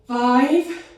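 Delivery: high shouted count; loud countdown. Real, not acted. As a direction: drive them through the final seconds. Coach counting down last reps.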